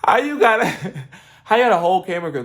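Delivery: high, loud, fast disbelieving cry with laughter; incredulous outburst. Retold or imitated. Watching the episode, she yells at the screen in shock. Her own stunned reaction while watching.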